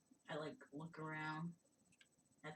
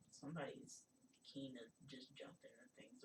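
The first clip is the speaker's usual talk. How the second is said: whispered aside; 6 dB quieter than usual. Real, not acted. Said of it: "aside about Chisadri".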